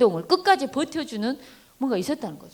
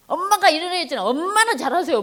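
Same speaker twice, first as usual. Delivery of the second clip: put-on high-pitched defiant kid; child talking back; 7 semitones higher than usual. Child standing up to a scolding mother, high-pitched back-talk. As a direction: argue back at mom in a higher voice. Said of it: "진이도 이제 엄마한테 막 대들어".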